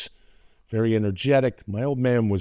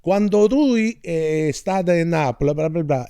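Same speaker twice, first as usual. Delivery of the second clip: higher-pitched Italian uncle talking into his hand; mock obscured uncle voice; uncle impression, hand over mouth; 6 semitones higher than usual. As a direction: imitate an uncle mumbling through his fingers. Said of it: "'cause he talks like this with his hand in his mouth".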